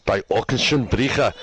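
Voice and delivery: team name pronounced as German; German accent. Shown as a demonstration. Host showing co-host how intimidating it sounds, German accent. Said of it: "when you say it in German".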